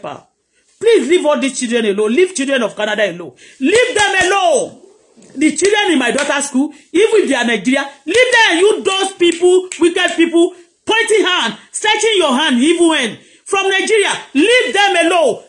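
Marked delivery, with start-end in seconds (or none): 3.6-4.8 emphatic slow warning. Real, not acted. Mother rebuking enemies over daughter. 8.0-15.4 raised rebuke. Real, not acted. Mother rebuking enemies over daughter.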